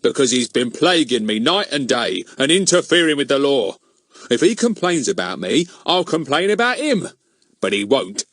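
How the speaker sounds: self-righteous grumbling policeman; rude. A narrator's reading. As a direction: rudely brush off the protest. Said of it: "said Mister Goon rudely".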